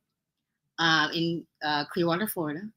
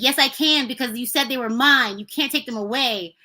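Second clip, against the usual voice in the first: put-on mildly mad kid; 4 semitones higher than usual. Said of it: "I was so, so mad".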